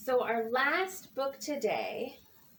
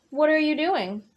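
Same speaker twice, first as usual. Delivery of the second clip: cheerful sheep; 4 dB louder, faster than usual. Acted. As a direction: greet Bird brightly as Sheep. Sheep asks Bird.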